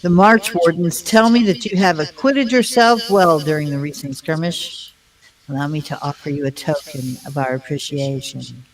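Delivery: a hint of a haughty elf; lightly voiced stuck-up elf lord; snotty elf voice. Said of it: "That was my best snotty elf voice".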